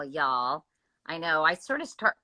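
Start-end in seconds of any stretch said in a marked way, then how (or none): 0.0-0.6 "y'all" as one clipped Southern word, quieter. Shown as a demonstration. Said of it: "start talking with a Southern accent".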